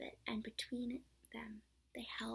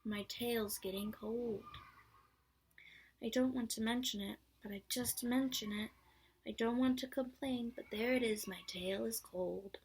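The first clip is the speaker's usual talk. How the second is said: gloomy Eeyore; 4 dB louder than usual. Acted. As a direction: drag it out as Eeyore. Eeyore complaining.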